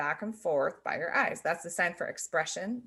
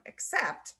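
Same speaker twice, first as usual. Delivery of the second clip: except face; 8 semitones higher than usual. Shown as a demonstration. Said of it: "changes the meaning".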